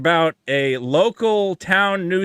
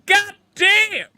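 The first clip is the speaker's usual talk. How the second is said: much higher, put-on falsetto outrage; caricatured woman in shower. Host mocking the character in the shower, high falsetto put-on voice. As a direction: shriek it like a stock sitcom character. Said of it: "she's going".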